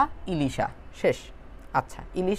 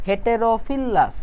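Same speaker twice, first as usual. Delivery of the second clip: হেটেরোফিলাস split into three slow parts, he-te-ro-fi-las; syllable by syllable; 4 semitones higher, much slower than usual. Shown as a demonstration. Teacher shows students how to break a hard name: slow syllable-by-syllable reading. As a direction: sound out হেটেরোফিলাস slowly, one syllable at a time. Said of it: "একটা শব্দকে আমি তিন ভাগে ভাগ করে নিছি".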